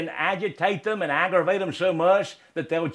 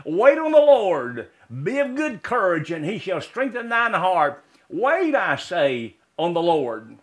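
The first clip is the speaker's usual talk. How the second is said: preached scripture. Real, not acted. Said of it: "Psalm twenty-seven".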